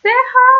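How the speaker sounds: letters sch spelled out, clearly and loudly; name the letters سه ها distinctly; letters read out. Shown as a demonstration.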